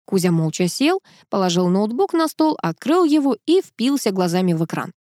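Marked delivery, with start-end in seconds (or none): none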